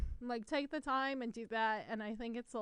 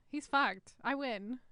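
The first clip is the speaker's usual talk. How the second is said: ordinary delivery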